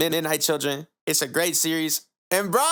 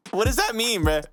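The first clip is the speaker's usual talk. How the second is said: laughing disbelief; 6 semitones higher than usual. Real, not acted. Cracking up over misreading.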